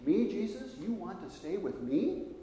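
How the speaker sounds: can't believe he's chosen; disbelief. Retold or imitated. Zacchaeus asking Jesus in shock, surprised rising voice. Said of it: "in disbelief".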